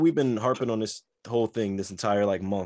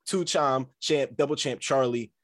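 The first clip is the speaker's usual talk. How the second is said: wrestling promo; 3 semitones higher, 3 dB louder than usual. Acted. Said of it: "The promo".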